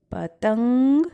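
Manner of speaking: पतंग with the final nasal ringing through the nose; nasal demo word. Shown as a demonstration. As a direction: let पतंग end in the nose. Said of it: "आप बोल के भी देखिए जरा". (पतंग का अनुस्वार नाक से)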